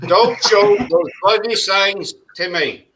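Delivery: slow, lightly done Michael Caine; a faint hint of Michael Caine drawl, slowly; slow mock Michael Caine, barely changed; Michael Caine impression. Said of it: "That's my Michael Caine impression".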